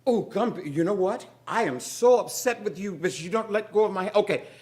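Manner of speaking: high, loud and fast; frantic, hand stuck; panicked rant. Acted. Moesha stuck to the gum baby, panicking loudly.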